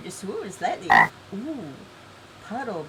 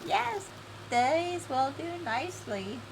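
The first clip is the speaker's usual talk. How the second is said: high, slow put-on voice for her; improvised character voice; 7 semitones higher, slower than usual. Player guessing at her voice for approval, high and slow. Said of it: "it might totally switch the voice again".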